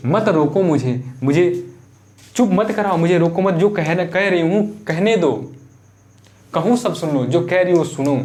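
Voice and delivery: lightly acted demand to be heard; a touch of urgent, repeated pleading; insistent Kaikeyi. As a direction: press them not to silence you. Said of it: "क्या बोली है कि".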